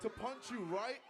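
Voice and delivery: megalomaniac rant. Acted. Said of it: "You sound like a supervillain".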